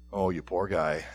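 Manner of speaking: soft, low pitying murmur under the breath; pitying aside. Retold or imitated. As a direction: sigh it out softly in pity. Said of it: "God is saying to himself".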